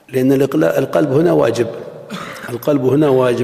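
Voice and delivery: usual speaking voice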